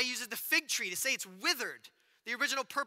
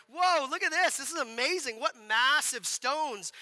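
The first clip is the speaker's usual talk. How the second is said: awed disciple; 3 semitones higher, 4 dB louder, slower than usual. Retold or imitated. Disciple marvelling at the temple stones, awed. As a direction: gush like someone seeing the temple for the first time. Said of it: "he's pointing at the temple going like".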